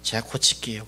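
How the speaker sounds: lager en zachter, een berouwvol kind; humble apology. Retold or imitated. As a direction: say sorry meekly, head bowed. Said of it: "일반적인 사람이라면".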